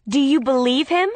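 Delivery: loud, high challenge; angry challenge. A narrator's reading. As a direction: demand it angrily.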